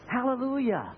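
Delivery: high, ringing hallelujah; joyful exclamation. Real, not acted. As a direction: cry it out in praise. Preacher exclaims after verse.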